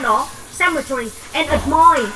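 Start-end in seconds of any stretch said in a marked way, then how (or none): 1.5-2.1 "admire" stressed on MIRE; stress on second syllable. Shown as a demonstration. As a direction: go light on ad, lean on the end of "admire". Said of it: "Động từ cho âm số hai".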